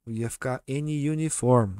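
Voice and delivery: "N uniform" slowly with an extra syllable; wrong an uniform. Shown as a demonstration. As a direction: stretch "N uniform" as "eniu nifórm". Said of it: "Ia ficar muito estranho de falar". ("N uniform" lento, com sílaba a mais)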